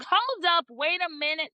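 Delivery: high-pitched mock disbelief; playful stop-everything reaction; startled interruption. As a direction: cut in, comically taken aback.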